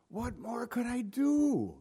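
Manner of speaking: high, slow, put-on voice; mock God wailing in despair; exaggerated wailing plea. Shown as a demonstration. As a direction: ham up a drawn-out lament. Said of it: "I don't think he'd say it like that".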